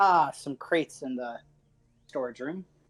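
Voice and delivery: casual, unbothered, nonchalant, offhand delivery. Player answering another character's question in a role-play, nonchalant. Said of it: "nonchalantly shrug and be like".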